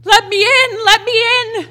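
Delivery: high, loud cry with an unearthly edge; a ghost screaming through her; possessed shriek. Acted. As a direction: voice taken over, shrieking to be let in.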